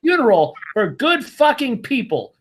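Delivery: angry telling-off. Pretend. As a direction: chew him out like you should have on day one. Imagined rant telling him off.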